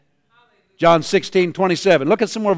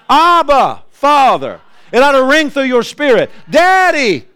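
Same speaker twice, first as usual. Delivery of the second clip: joyful cry to God; 8 semitones higher, 3 dB louder than usual. Real, not acted.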